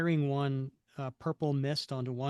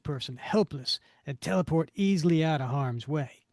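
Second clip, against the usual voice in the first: villain voice; 5 dB louder than usual. Acted. Villain boasts to henchman.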